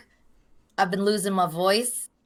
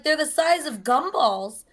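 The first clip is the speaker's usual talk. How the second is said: quoting the nurse; 6 semitones higher than usual. Retold or imitated. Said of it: "She was like".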